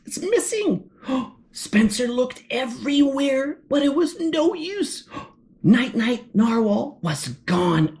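dramatic storybook read-aloud with gasps; story reading to children. A narrator's reading. Reading to boys and girls about a lost narwhal, dramatic storytelling. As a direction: read it with drawn-out suspense at the end.

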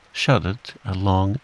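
ordinary delivery, nothing marked

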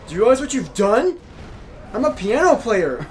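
high, loud hammed-up wail of a wounded pianist; mock panicked boss. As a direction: squeal it like a diva who broke her wrist. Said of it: "She's like".

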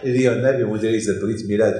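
normal talking voice

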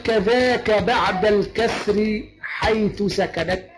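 slow recited verse line; teacher reciting the poem; verse recitation. Shown as a demonstration. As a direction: chant the line deliberately. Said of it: "قال".

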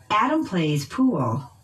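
"Adam" and "pool" stressed by pitch; noun stress. Shown as a demonstration. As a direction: lift "Adam", dip on "plays", stress "pool" and fall. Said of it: "using pitch change".

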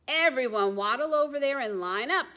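high, bossy call; little penguin organizing. Acted. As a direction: round everyone up. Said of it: "says the little penguin".

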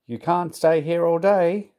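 storyteller's indignant inspector; cross. A narrator's reading. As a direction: tell him off crossly. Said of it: "he said crossly".

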